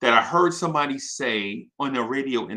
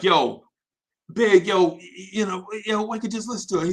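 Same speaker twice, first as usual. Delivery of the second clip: urging producer; 6 semitones higher than usual. Retold or imitated. Producer waking Big to hear the beat, high and hurried. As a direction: coax a sleepy friend, quick and high.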